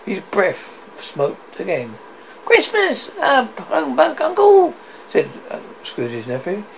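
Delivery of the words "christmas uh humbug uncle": very high, incredulous exclamation; astonished protest. Acted. Nephew questions his uncle's humbug, astonished protest. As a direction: pitch it right up in cheerful disbelief.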